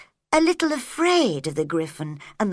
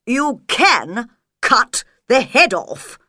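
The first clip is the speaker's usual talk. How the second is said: king's voice; 6 dB louder, slower than usual. A narrator's reading. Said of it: "said the king".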